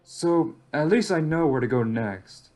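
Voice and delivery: measured first-person journal monologue; in-character story narration. Acted. Lone amnesiac survivor weighing clues about the relay station, measured narration. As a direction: think the mystery through aloud, evenly.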